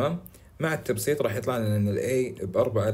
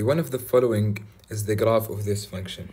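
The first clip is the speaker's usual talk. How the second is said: slow reading; much slower than usual. Shown as a demonstration. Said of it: "هنا يقول لي".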